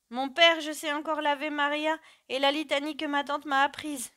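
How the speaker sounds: put-on high, loud anxious child's voice; pleading child. A narrator's reading. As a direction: plead for time as a scared child. Frightened child stalls before execution. (voix aiguë d'enfant apeuré)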